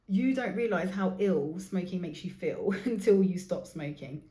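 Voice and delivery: laughing through the line while joking. Shown as a demonstration. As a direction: joke about it, a laugh in the middle. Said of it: "she says, joking".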